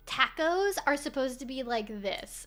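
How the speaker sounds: lightly mocking Valley Girl accent. Streamer imitating TV host explaining tacos, Valley Girl accent. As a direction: put on a know-it-all Valley Girl. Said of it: "do him in a Valley Girl accent".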